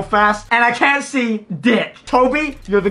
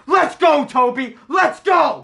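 high, celebratory calls; excited cheering; 5 semitones higher, slower than usual. Real, not acted. Player cheering Toby for a good pack, high excited calls. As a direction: cheer him on, pitched up high.

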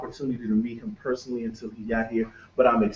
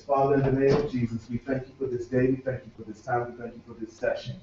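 opening prayer. Real, not acted. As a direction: lead the room in prayer.

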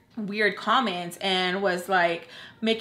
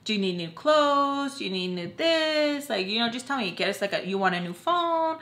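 pushy friend; 3 semitones higher than usual. Retold or imitated. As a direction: coax her into accepting gifts, pitched up. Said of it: "She's like".

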